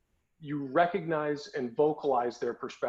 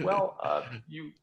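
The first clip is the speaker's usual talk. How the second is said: late night DJ voice. Retold or imitated. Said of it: "in my late night D J voice".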